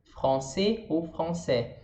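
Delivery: very slow français with a throaty R; français drawn out, throaty R, nasal an, no S. Shown as a demonstration. Teacher slowly modelling français for her students. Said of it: "Fran na garganta".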